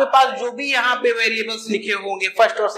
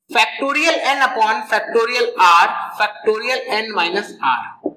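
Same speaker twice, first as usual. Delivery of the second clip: slow dictation; much slower than usual. Shown as a demonstration. Teacher dictating formula to class.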